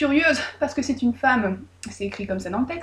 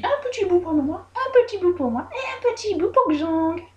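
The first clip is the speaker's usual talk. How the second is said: sly sharing out; 8 semitones higher than usual. Retold or imitated. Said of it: "elle se dit".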